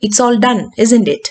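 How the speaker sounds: "isn't it" dropping; falling tag question. Shown as a demonstration. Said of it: "there is a falling intonation".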